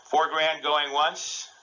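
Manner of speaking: slow, drawn-out auction call; auctioneer. Pretend. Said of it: "I'm gonna be the auctioneer".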